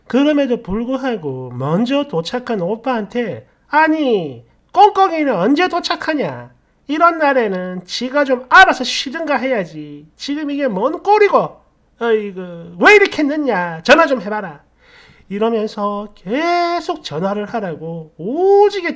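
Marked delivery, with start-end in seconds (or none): 3.7-14.6 a nagging mother, voice pushed up high and loud. Retold or imitated. Mother nagging her son about the late daughter-in-law, loud and high. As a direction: nag like an impatient mother hounding her son.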